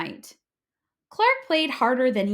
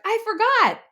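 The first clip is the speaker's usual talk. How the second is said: high, louder sheepish excuse; 12 semitones higher, 6 dB louder than usual. A narrator's reading. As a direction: blurt the excuse. Clark apologises.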